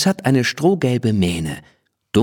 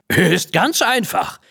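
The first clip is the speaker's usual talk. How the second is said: lässige Ponystimme; 11 semitones higher, slower than usual. A narrator's reading. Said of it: "wiehert Tommy".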